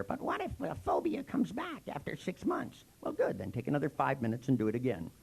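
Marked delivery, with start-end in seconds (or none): 0.0-2.8 worried client. Retold or imitated. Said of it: "Constantly I hear".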